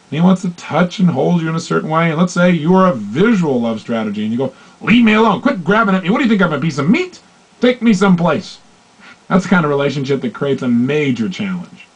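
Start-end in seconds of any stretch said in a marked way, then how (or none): 4.8-8.6 higher, irritated leave me alone; mock exasperated wife; annoyed rebuff. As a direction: push him off impatiently. Acted annoyed partner pushing away.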